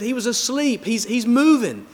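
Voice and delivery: high-pitched, astonished storyteller's mom voice; acted amazement, pitched well up; surprised mom. Mom discovering the pet turtle is alive, surprised.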